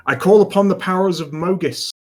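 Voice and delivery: crackly voice. Acted. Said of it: "crackle me throat again".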